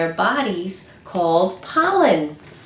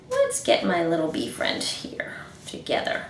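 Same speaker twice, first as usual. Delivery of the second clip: secret whisper to the class; 3 semitones lower, 7 dB quieter than usual. Real, not acted. Teacher whispering to children.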